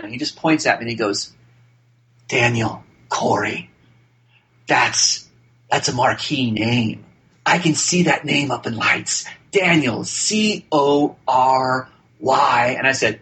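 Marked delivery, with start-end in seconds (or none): 2.3-12.7 lightly imitated actor, slow and deliberate; measured, mildly theatrical star impression; Martin Sheen. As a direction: savor each word with pauses, like a voiceover. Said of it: "I can't imitate him well".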